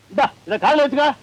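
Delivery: impatient deaf man thrusting the hearing aid at her; impatient urging. Acted.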